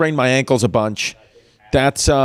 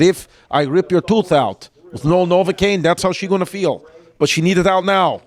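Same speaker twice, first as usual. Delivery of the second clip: put-on Russian accent; 2 semitones higher than usual. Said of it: "this Russian woman".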